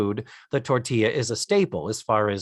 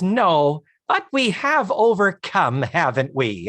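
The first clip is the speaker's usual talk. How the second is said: gushing lady voice; 4 semitones higher than usual. Retold or imitated. Lillian voiced.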